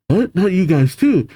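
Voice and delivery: high, startled disbelief; dismayed call. Acted. Giants seeing comrades turned, high dismayed cry. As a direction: call out in acted shock. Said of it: "The giants call out".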